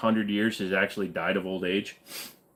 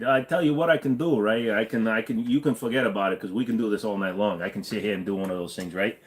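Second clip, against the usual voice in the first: put-on New York mafioso accent. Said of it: "New York mafioso".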